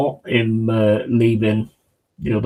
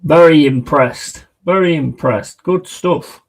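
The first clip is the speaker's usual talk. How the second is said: loud praise; 4 semitones higher, 6 dB louder than usual. Real, not acted. Praising the team aloud.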